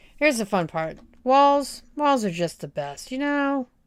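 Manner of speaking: high, openly sarcastic mock enthusiasm, fake cheer. Starting to build walls, calling it the fun part: sarcastic. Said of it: "I'm totally being sarcastic".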